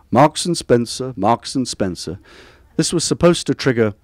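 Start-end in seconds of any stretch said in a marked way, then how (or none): 0.1-2.2 slow, lightly imitated Oxonian chant; lightly intoned Oxonian. Imitating a headmaster prompting Latin pupils, lightly intoned Oxonian. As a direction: intone it slowly, a hint of donnish solemnity. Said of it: "intone in Oxonian basso".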